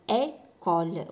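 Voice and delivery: école drawn out slowly with a closed é; teacher repeating école; closed é demo. Shown as a demonstration. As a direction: slowly model école again. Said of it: "ها نعاودوها".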